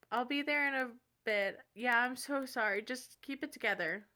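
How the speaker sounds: put-on sympathetic phone voice; faked phone reassurance. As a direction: pretend to calm a friend on the phone. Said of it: "I made up this whole conversation".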